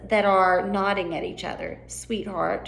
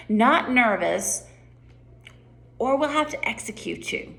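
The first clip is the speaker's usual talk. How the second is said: "Not nervous" said kindly, then a menacing threat; nice words hiding a death threat; sweet then menacing; 3 semitones higher than usual. Shown as a demonstration. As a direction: smile through the threat. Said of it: "Change your facial expressions".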